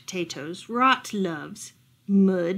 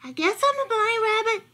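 trembling; 12 semitones higher than usual. Acted. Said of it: "his lips trembling".

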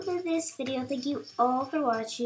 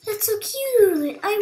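slow, high, loud gushing aww; sympathetic aww; 10 semitones higher, 11 dB louder, slower than usual. Real, not acted. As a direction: coo over it like a puppy. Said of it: "I think I went mad just now".

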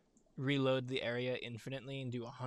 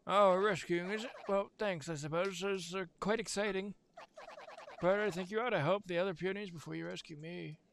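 higher, chirpy elf voice; christmas elf; 7 semitones higher than usual. Acted. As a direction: pitch it up like a little elf. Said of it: "this is gonna be the Chisel voice".

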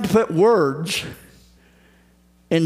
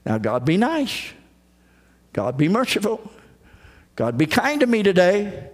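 sweet scolding. Retold or imitated. Preacher mocking prayers that scold God sweetly. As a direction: scold gently, like a polite nag. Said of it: "a courteous, sweet scolding".

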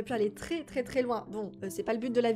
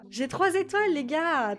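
excited; 5 semitones higher, 5 dB louder than usual. Real, not acted. Celebrating three stars.

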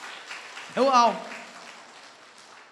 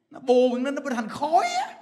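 laughing; 3 semitones higher than usual. Real, not acted. Laughs while explaining tumor.

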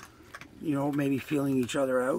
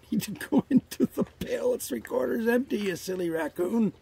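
much higher playful voice for an animal; pet talk; 9 semitones higher than usual. Real, not acted. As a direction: tease the raccoon like a pet. Talking to a raccoon.

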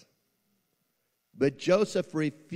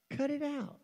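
stern command; 4 dB quieter than usual. Acted. Pastor repeats command.

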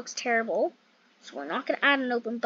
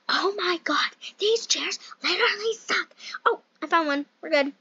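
breathy whisper so the dog sleeps; real whisper to not wake the puppy; 5 semitones higher than usual. Real, not acted. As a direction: hush it, don't wake the dog. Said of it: "We gotta whisper, guys".

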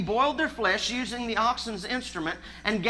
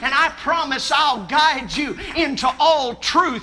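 voice of God; 3 semitones higher, 6 dB louder than usual. Retold or imitated. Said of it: "And God said".

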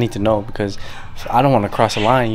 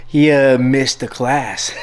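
giggling through the words; laughing; 2 semitones higher, slower than usual. Real, not acted. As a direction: talk while giggling. Laughs about absent brother.

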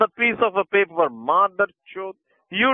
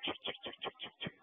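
chugging like a train; 25 dB quieter, much faster than usual. Pretend. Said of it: "train noise করছে".

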